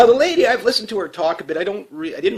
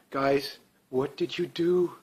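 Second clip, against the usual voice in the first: slow, softer, dismayed question; disappointed scolding; 7 dB quieter, much slower than usual. Pretend. Asking Alberta voters what they did, slowly and dismayed.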